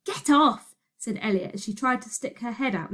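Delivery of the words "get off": raised, higher-pitched rebuff; irritated order. Acted. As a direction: snap it loudly to push someone away. Pushing her away from window.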